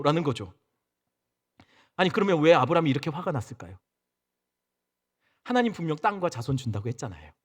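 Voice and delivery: ordinary delivery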